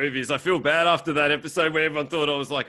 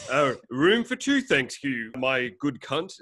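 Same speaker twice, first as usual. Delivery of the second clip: customer at counter; slower than usual. Acted. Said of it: "go up to the counter".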